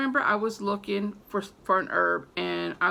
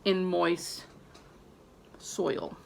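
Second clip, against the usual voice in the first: reluctant; 2 semitones lower, 3 dB quieter, much slower than usual. Real, not acted. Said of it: "I gotta say the word".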